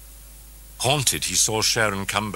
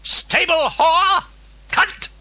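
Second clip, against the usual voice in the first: slow, high and much louder rasp; rasping demon voice; 9 dB louder, slower than usual. A narrator's reading. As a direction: spit it like a possessed thing. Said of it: "the Dennings personality appeared rasping".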